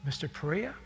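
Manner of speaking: hushed flight attendant leaning close, mildly imitated; retold whisper. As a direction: quietly urge him to accept the gift. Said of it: "whispers in my ear".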